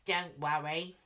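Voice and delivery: the alligator coaxing the scared animals; sly alligator. A narrator's reading. Alligator calmly coaxing the scared jungle animals. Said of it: "said the alligator".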